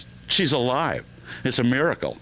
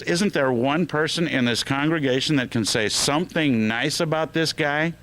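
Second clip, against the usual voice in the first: higher-pitched, mildly exasperated plea; upset minister; 5 semitones higher than usual. Acted. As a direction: plead as a minister getting upset. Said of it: "minister's starting to get upset".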